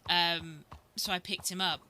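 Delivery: ordinary talk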